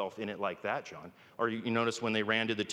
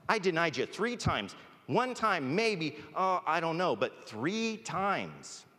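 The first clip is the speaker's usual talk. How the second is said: high, louder acted dismay; distraught self-reproach; 8 semitones higher, 3 dB louder, slower than usual. Peter reproaching himself over denying Jesus, distraught. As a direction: stretch out the final words in high-pitched dismay.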